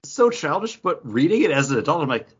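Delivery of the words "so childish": laughing mock. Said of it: "and I was like".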